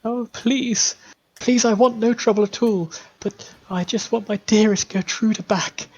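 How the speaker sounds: put-on high, pleading old woman's voice; high tearful mother pleading at the door; desperate grieving mother.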